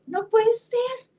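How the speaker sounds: slow, high, drawn-out no puede ser; a slow, laughing can't-be; disbelief. Retold or imitated. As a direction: stretch it out in stunned disbelief. Disbelief repeated.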